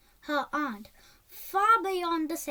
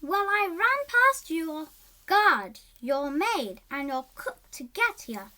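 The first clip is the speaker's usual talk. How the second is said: proudly; 4 dB louder than usual. Acted. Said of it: "said Izzy proudly".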